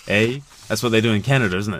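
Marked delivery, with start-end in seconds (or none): 0.1-0.4 mock-Canadian tag "A"; stereotyped Canadian sentence-ending "A". Shown as a demonstration. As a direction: demonstrate a Canadian accent with a tacked-on "A". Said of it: "That's how you do a Canadian accent".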